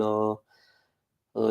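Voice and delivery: drawn-out, mildly moaned "oh"; mock moaning. Speaker imitating himself sitting miserable about things, mock moaning. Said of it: "kinda moaning about the state of the things".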